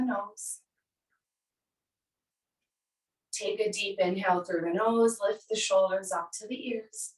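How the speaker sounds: calm, measured yoga-teacher guidance; unhurried meditation cueing with space between phrases; guided relaxation. Acted. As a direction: lead them gently into the body, leaving long pauses. Leads breath and body relaxation.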